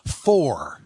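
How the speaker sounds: "for" set apart with weight; stress on FOR. Shown as a demonstration. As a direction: lean hard on "for", as the word under study. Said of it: "put the emphasis of the verse".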